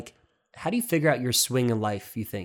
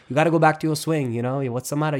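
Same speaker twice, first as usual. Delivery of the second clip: a light Italian accent, imitating dad, a bit louder; 3 semitones higher, 5 dB louder, faster than usual. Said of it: "Italian voice".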